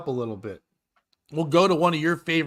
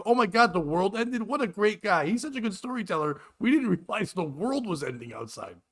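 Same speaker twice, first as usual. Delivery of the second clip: put-on kids' voices pitched up, amazed and gushing; mock kid voices; 5 semitones higher than usual. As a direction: gush like wide-eyed kids. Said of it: "they go".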